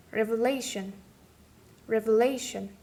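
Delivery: "revelation" with LA, the second last syllable, stressed; stress on penultimate syllable. Shown as a demonstration. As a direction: punch LA in "revelation". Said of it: "penultimate or second last syllable".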